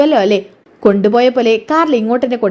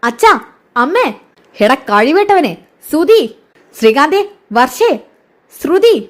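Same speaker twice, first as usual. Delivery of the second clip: shouting names up the stairs, louder and higher; calling out loudly; 3 semitones higher, slower than usual. Acted. Sachi calling everyone down to the dining hall, loud calls. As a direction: summon the whole family with loud calls. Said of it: "ഉറക്കെ വിളിച്ച് പറയുന്നുണ്ട്".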